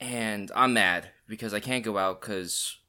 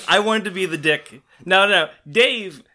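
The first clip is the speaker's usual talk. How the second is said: mock evil glee; 8 semitones higher, 7 dB louder, slower than usual. Mock villain bragging, laughing.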